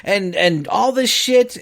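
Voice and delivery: high-pitched mock politician; whiny high mock of the congresswoman; mocking impression. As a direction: parody her, voice up high. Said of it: "and she's like".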